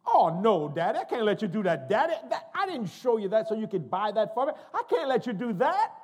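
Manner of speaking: loud, high mock wail; imitating protesting daughter. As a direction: holler an over-the-top refusal to Daddy. Acts out daughter's protest to father.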